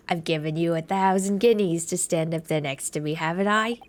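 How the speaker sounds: put-on a touch of a muddled accent for an indignant client; McGilded. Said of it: "I keep changing his accent".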